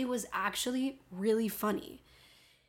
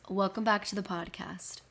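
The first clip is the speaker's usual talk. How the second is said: whispered intro; 2 semitones lower, 4 dB quieter than usual. Shown as a demonstration. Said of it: "working on my podcast voice".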